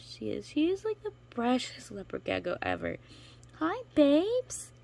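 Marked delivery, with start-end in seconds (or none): 3.6-4.7 high and louder cooing. Real, not acted. Greeting her gecko, high louder baby talk. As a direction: greet the pet sweetly.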